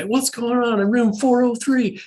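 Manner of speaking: a hammed-up neighbor calling out in protest; complaining neighbor. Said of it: "the people downstairs will complain".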